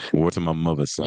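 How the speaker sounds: lightly imitated New York slang; New York accent. Showing how they talk in New York, New York accent. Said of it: "how do they talk from New York".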